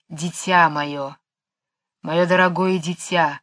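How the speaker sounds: a gentle serpent hissing each s; whistling s. A narrator's reading. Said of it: "тихий, нежный, свистящий голос".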